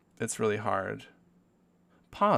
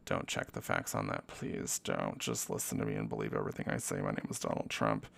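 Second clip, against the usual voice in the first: much lower, gruff Trump voice; mock Trump; 13 semitones lower, 5 dB quieter than usual. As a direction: drop deep and play Donald Trump. Mock Trump voice, "My name is Donald Trump.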